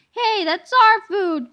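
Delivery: loud, slow outraged protest; indignant cry. Acted. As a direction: protest the stolen lunch. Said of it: "cried Mister Rected".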